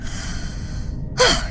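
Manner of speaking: breathy, self-pitying sigh; theatrical sigh. Acted. God stuck in a contraption, dramatic sigh.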